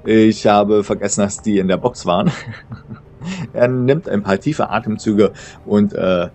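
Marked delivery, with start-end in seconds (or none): 0.0-2.3 lightly acted laughing exclamation; amused outburst, laughter lightly played; between laughs. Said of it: "einen Satz hervorzustoßen zwischen seinem Lachen". 2.3-2.9 quiet trailing chuckle; small hushed after-laugh. Acted. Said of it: "seinem Lachen".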